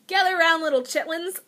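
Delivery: hammed-up storyteller gathering her audience; storyteller call. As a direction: call the kids round for a tale. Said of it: "Story time".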